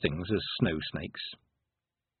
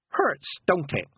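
put-on higher-pitched, pleasantly needling old Granny; 7 semitones higher, slower than usual. A narrator's reading. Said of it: "said Granny pleasantly".

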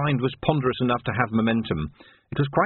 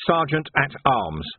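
matter-of-fact, firm statement; name the rank without room for argument; firm demand; 4 semitones higher, slower than usual. Acted. Vimes tells the captain his rank, firm.

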